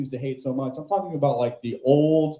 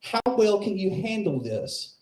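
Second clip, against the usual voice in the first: put-on high, twangy old barfly voice; aunt needling the comic, high and mocking; 6 semitones higher than usual. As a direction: lean in like a leering old aunt. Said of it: "She says".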